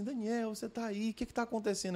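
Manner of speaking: a hint of a sweet teacher's voice; kind teacher. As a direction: gently ask the lost little boy what's wrong. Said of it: "e fala assim".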